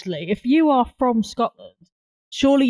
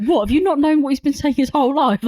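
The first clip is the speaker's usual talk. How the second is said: incredulous, higher-pitched questioning; mock disbelief; 6 semitones higher, 3 dB louder than usual. Answering a dad who can't understand his son, mock disbelief. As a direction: challenge them as if astonished.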